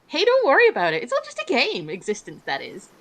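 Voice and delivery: put-on goth girlfriend voice.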